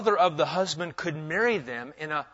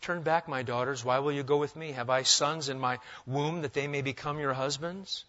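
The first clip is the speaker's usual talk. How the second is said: nice way; 2 semitones lower, 5 dB quieter than usual. Shown as a demonstration. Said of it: "now you could read it in maybe a nice way. I'll try that first".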